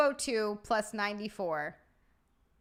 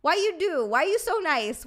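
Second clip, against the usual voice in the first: mock-whiny, louder and higher; funny voice; 5 semitones higher, 6 dB louder than usual. Real, not acted. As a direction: playfully whine the thanks. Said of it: "Why do I say that like that?".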